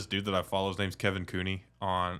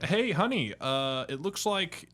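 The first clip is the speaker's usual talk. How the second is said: higher, slow husband reading out news; husband in a skit; 4 semitones higher, slower than usual. Retold or imitated. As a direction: imitate a husband telling his wife, drawn out. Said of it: "it was like".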